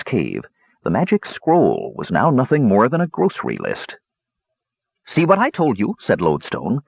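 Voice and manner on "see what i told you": put-on higher, old dwarf hermit; lightly voiced old dwarf.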